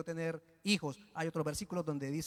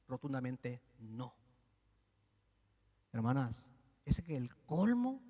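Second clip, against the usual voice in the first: ordinary talk, nothing marked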